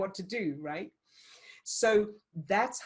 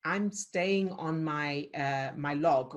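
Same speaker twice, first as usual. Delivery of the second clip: calm steadfast; slower than usual. Shown as a demonstration. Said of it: "This is".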